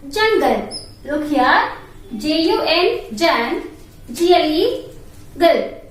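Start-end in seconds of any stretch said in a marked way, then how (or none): 3.2-3.6 JAN said as a separate syllable; teacher isolating JAN, the first part of jungle; syllable demo. Shown as a demonstration. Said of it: "How to pronounce that?". 5.4-5.8 put-on GIRL as the detached second syllable of jungle; teacher isolating the ending GIRL; syllable demo. Shown as a demonstration. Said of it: "How to pronounce that?".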